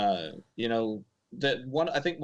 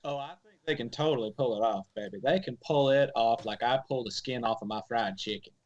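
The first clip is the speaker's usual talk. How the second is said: fake Southern accent. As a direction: ham up a Southern cook accent. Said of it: "Zach's, uh, fake Southern accent".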